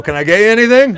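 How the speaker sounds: overly eager host in a panic; panicked politeness. Retold or imitated. Terrified host offer.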